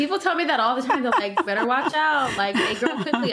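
laughing through the words, a bit quick. Real, not acted. Mother laughing to the host about others' warnings, laughing. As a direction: chuckle the warnings out as you tell them.

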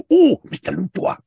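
high gasping squeal of a bumbling henchman; mock Otis. Lackey Otis gasping up high at his boss Luthor. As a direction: gasp it out up high, like a startled lackey.

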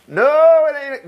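high, loud no; emphatic no. Real, not acted. Preacher tells the congregation it is not over, loud. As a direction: shoot the idea down hard.

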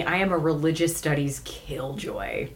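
soft whispered confession; whispering. Real, not acted. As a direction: whisper it like a secret. Whispered self-intro.

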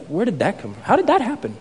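puzzled and amazed at it; surprised. Acted. Acts out astonished reaction.

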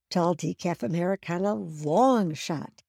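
carefully repeated order, "long" drawn out; deliberate repeat order. Retold or imitated. Customer repeats misheard drive-through order, slowly and deliberately. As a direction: stretch "long" so they get it right. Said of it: "You talk slowly and deliberately".

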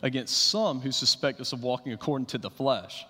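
measured, solemn reading of the passage; scripture reading. Acted. Scripture reading opens sermon.

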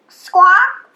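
loud, short bird squawk; parrot squawk. A narrator's reading. Parrot questions the frogs, loud squawk. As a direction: cut in like a parrot. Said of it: "said the parrot".

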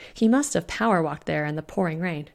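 ordinary delivery, nothing marked

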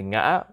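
"ngã" cut back briefly, then rising; broken rising tone. Shown as a demonstration. Host recapping the tones, "ngã" cut and rising. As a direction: put the catch and rise in "ngã". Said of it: "cut back a little bit".

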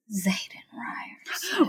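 slow, breath-only whisper of a name; hushed, drawn-out mock awe; dramatic whispered reveal. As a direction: whisper it slowly, as a grand reveal. Dramatic reveal of the love interest.

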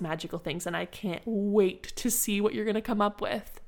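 bright, upbeat classroom announcement, voice lifting on bubbles and flowers; cheerful teacher to kids. Shown as a demonstration. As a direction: sell the potion table to a room of preschoolers. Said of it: "you're going to say".

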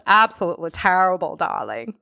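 playful attempt at a British accent; bad British accent. Shown as a demonstration. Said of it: "try to do my British accent".

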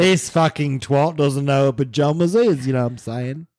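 put-on cockney geezer; rough-and-ready mock cockney. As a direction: play a hammed-up cockney lad. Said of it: "with a cockney accent".

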